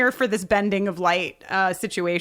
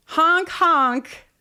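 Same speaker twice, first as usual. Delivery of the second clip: mock horn honk; 5 semitones higher than usual. Imitating horn of Winnebago.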